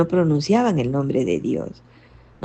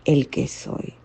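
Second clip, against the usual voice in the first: voice of God; 4 dB quieter, much slower than usual. Retold or imitated. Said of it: "Y Dios le dice".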